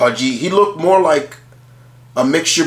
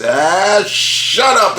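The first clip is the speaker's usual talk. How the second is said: higher, mock exasperated outburst; pissed off; 4 semitones higher, much slower than usual. Retelling the listener snapping at the rooster, mock anger. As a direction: act fed up, without real shouting. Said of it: "like, pissed off".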